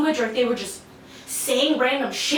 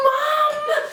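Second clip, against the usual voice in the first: calling out; 13 semitones higher than usual. Retold or imitated. Calling for mom, shorter word.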